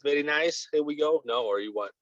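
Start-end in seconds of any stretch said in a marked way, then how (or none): 0.0-0.7 higher-pitched Russian-accent catchphrase; Borat. Shown as a demonstration. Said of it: "Russian accent, like Borat". 0.7-1.2 Russian accent, pitched higher; Borat. Shown as a demonstration. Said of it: "you want with Russian accent".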